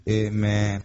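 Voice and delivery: low, drawn-out, listless amen; mock a lacklustre amen, pitched low; unenthusiastic congregation amen. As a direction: imitate a congregation's half-hearted response. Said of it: "the amen you get will be".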